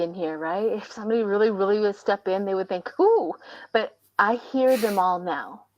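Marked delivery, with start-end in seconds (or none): 3.0-3.3 puzzled. Retold or imitated. Imagined puzzled visitor.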